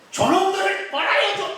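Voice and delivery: high, loud cry with a laugh; mock outraged cry. Preacher imagining Paul demanding punishment, laughing mock shout. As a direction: cry out for revenge, half laughing. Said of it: "이래야 돼, 끝에 가가지고".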